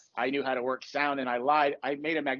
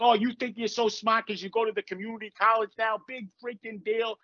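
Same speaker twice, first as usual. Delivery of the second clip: mocking sarcasm; 5 semitones higher than usual. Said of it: "It's like".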